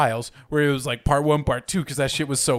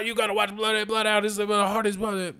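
higher, pushy hype-man voice pitched well up; imitating Justin; 8 semitones higher than usual. Mocking how Justin hyped the movie at the apartment, high, eager imitation. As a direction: sell the movie like an overexcited friend. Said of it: "you know, how Justin does".

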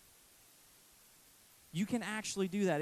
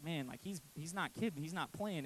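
hushed; 7 dB quieter than usual. Retold or imitated. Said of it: "come off to you guys tonight as like".

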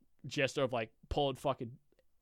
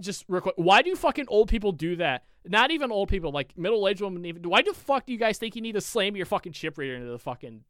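loud, higher, fed-up rant; exasperated rant; 6 semitones higher, 7 dB louder than usual. Real, not acted. Cashier complaining to friends about customers, exasperated rant. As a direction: vent about card-slamming customers.

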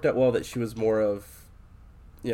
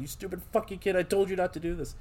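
higher, softer mock-anguished scolding; retold crying; 8 semitones higher, 4 dB quieter, faster than usual. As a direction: imitate a distraught man cursing through tears. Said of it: "he's, like, crying".

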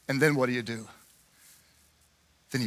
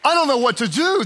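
mock panicked; 4 semitones higher than usual. Pastor acting out an anxious believer, mock panic. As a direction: fret it out like you're overwhelmed.

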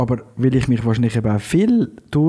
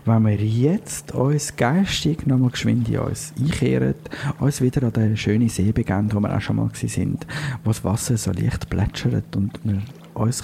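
guided visualisation; 2 semitones lower than usual. Pretend. Host guiding listeners to the lake, guided meditation. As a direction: lead listeners gently to the lake.

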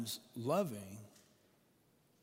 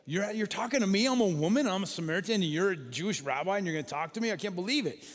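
astonished woman; 4 semitones higher, 4 dB louder, faster than usual. Retold or imitated. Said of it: "she's like".

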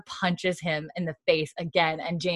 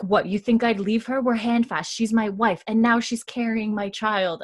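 higher-pitched retold indignation; indignant protest; 4 semitones higher than usual. Roger defends himself to Brianna's parents, indignant protest. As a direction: protest as if insulted, half-acted.

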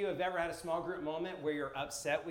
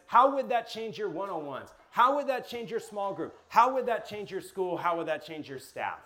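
louder, higher questions that keep building; building rhetorical questions; 4 semitones higher, 5 dB louder than usual. Real, not acted. Preacher pressing the room with rising questions. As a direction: drive each question home harder.

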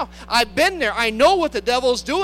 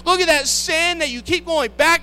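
accusing devil; 4 semitones higher, 5 dB louder than usual. Acted.

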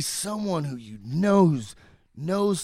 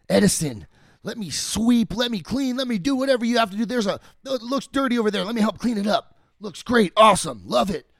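higher, fast, keen begging; eager pleading; 5 semitones higher, 4 dB louder than usual. Retold or imitated. Guy begging Edison to let him sweep, eagerly. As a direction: plead to help, bright and pushy.

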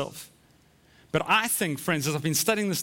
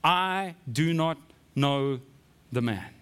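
very slow, each word set apart; vehement sworn denial; 3 semitones lower, slower than usual. Acted. Peter swearing to bystanders, vehement denial. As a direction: swear it deliberately, dropping low at the end. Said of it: "I'm so vehement in my denial".

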